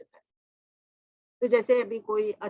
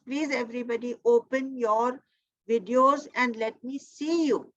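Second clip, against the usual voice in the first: slow coaxing; 3 semitones higher, much slower than usual. Real, not acted. Slow coaxing request to audience.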